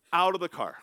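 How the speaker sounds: loud yelled order; angry shout. Retold or imitated. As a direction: bark the order like a dad. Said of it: "he was like".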